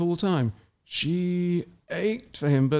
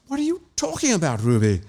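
aghast; 4 semitones higher than usual. Acted. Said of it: "Margot looked aghast".

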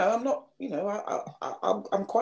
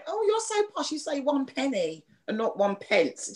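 mock schoolkid taunt; 7 semitones higher than usual. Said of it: "I remember when I was really young going".

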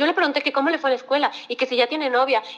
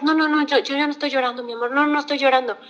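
mock hurried brushing-off, higher pitch; lightly acted mum insisting all is fine; acted denial; 4 semitones higher than usual. Mother hiding her tears from her child, acted dismissive denial.

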